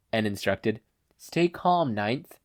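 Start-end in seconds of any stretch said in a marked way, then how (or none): 1.2-2.4 soothing. Acted. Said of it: "Yoichi soothed".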